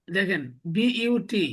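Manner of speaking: বিইউটি spelled slowly letter by letter, "bi-u-ti"; spelling it out. Shown as a demonstration. Teacher to students spelling out the English word. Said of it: "কি উচ্চারণ করি?".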